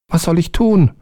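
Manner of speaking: high, small servant voice; eager little servant, high; little black man. A narrator's reading. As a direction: pitch up for the tiny obedient helper.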